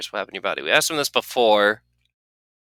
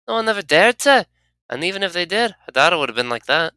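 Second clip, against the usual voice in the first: a lightly higher, boastful character; proud companion voice; 8 semitones higher, 5 dB louder than usual. Acted. Anna telling the player no one dared kiss her, lightly proud.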